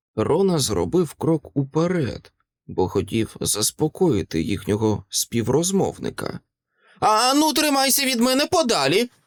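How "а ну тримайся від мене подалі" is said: very high-pitched cry, almost a shriek. The old man warns Rona back as he steps forward, almost shrieking. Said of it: "майже заверещав той".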